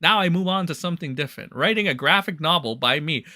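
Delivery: lightly put-on hillbilly accent; mocking hillbilly accent. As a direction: read his post in a mocking hillbilly accent. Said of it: "I gotta give him the hillbilly accent".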